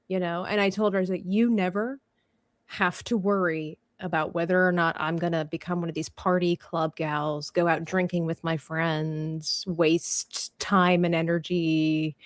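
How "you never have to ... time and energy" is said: low, measured, softer promise; retold solemn reassurance. Retold solemn promise to worried mom.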